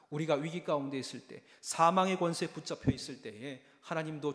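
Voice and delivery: 크게 힘주어 설교하는 목소리; 확신을 담아 회중에게 외치듯. Acted. 설교 절정에서 힘주어 외침. (회중에게 힘주어 외치는 설교)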